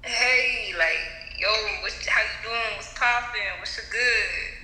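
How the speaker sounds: casual attempt at American slang accent. Caller copying the coach's greeting, attempted American accent. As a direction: try on an American street greeting. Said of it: "speak in your American accent".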